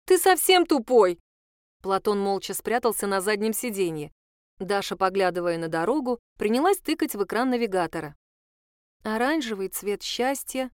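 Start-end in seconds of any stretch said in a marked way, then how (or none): 0.1-1.2 slow, loud, higher exasperated shout at him; exasperated yell. Acted. Dasha snaps at Platon over the film question, slow exasperated shout. 9.0-10.7 delirious murmur. Acted. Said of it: "Она бредит".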